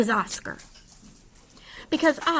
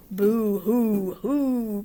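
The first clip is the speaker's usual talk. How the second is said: mock sobbing; 3 semitones lower, much slower than usual. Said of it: "sobbed the dogs".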